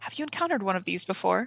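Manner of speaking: hushed half-whisper under the breath. Playing a character who leans to a companion and half-whispers. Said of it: "and whisper".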